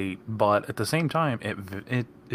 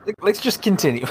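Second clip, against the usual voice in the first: giggling through the words; barely holding back laughter; laughing; 11 semitones higher, 4 dB louder than usual. Real, not acted. Laughing, trying to move on.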